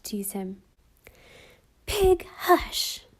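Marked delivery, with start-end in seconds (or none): 1.9-3.1 put-on much higher, sweetly menacing little girl's command; a gentle voice that still freezes him; terrible quiet order. A narrator's reading. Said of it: "ordered Alice terribly".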